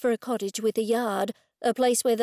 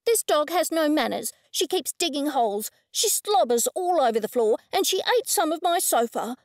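complaining rude woman; 5 semitones higher than usual. Acted.

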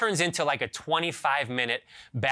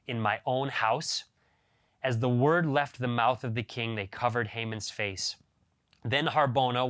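measured, solemn reading of scripture; 2 semitones lower than usual. Acted. Reader to the congregation, solemn scripture reading. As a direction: read the Esther passage out with gravity. Reads scripture before the sermon.

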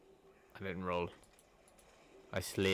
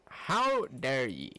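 slow indignant crone cry; old hag; 3 dB louder, slower than usual. Acted.

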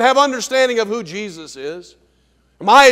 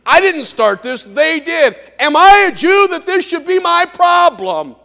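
indignant Pilate; 4 semitones higher, 4 dB louder than usual. Acted.

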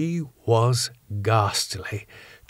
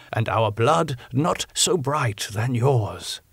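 put-on slow, gentle old professor explaining; kindly; 3 semitones higher, slower than usual. Professor kindly tells Arthur why blood is needed, slow gentle professor voice. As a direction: soften it, ease him in. Van Helsing praises Arthur.

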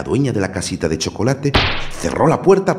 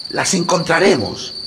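put-on encouraging boy; 10 semitones higher than usual. A narrator's reading. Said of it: "la animó su hermano".

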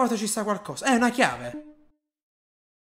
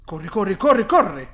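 urgent; 4 semitones lower than usual. Real, not acted. Urging himself to run.

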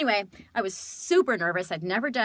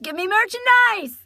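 high, loud, hammed-up greedy cry; mock demand; 13 semitones higher, 11 dB louder than usual. Fan demanding Hey Arnold merchandise, in a mock-greedy shout.

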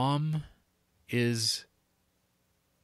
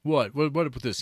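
ornery; 3 semitones higher than usual. Retold or imitated. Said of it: "ornery and just annoying".

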